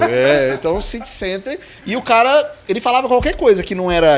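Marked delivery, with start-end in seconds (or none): 0.8-1.6 "City Center" with a rising question tune; questioning intonation. Shown as a demonstration. Showing friends how he asked drivers, questioning intonation. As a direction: let "City Center" lift at the end. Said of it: "Você põe uma entonação".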